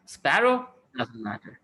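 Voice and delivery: nervous ocean. Acted. Ocean warning sparrow about Garuda, nervous and high. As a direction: panicky warning, voice jumping up high. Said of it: "the ocean got a little nervous".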